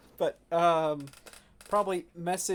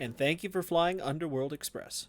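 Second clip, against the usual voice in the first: captain announcement. Pretend. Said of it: "next we're gonna hear".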